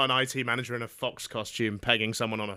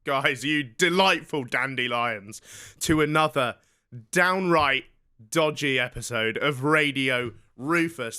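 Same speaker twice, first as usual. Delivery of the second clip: radio host voice; slower than usual. Acted.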